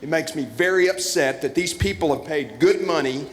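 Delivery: hammed-up outrage at the interruption; mock upset. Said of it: "this upsets me".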